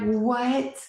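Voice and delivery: high, loud urgent demand; panicked let me see; frantic let me see. Retold or imitated. Wife to husband, wanting proof: high frantic demand. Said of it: "I'm like".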